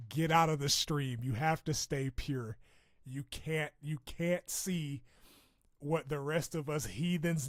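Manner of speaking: hammed-up protective scolding; mock preachy warning. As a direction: playfully scold the pet to stay pure. Shooing the cat from stream.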